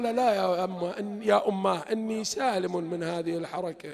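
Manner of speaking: calm a frightened mother softly; gentle reassurance. Acted. Son Ismail reassuring his mother, softly.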